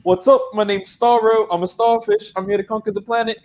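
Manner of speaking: high goofy alien conqueror voice; squeaky starfish villain introducing himself. Retold or imitated. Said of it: "He's like".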